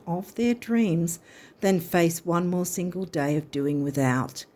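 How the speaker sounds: lightly lifted reading of the card text. Acted. Reader reading the card's message to viewers in a reading voice. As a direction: read it as the universe speaking to you.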